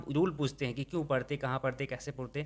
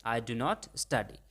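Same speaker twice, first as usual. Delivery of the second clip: very slow, word by word; slow model sentence; 3 semitones lower, 6 dB quieter, much slower than usual. Shown as a demonstration. Teacher models the negative for students, very slowly. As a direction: dictate it slowly. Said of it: "क्या बोलेंगे".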